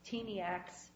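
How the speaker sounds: put-on "Teeniacs" with a long E, like teen; "teen" first syllable. Shown as a demonstration. Judge telling the lawyer how it reads to her, "teen" in "Teeniacs". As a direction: start "Teeniacs" with the word teen. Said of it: "I see the word teen".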